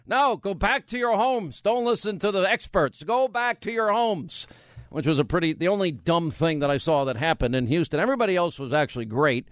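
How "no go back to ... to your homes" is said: higher mock official order; mocking mayor. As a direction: parody the mayor's bad advice. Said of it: "a mayor like in Houston saying".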